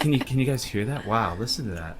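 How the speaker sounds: soft, hushed awe; mock ASMR influencer. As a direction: imitate a content creator inviting viewers to listen. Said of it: "Like the A S M R".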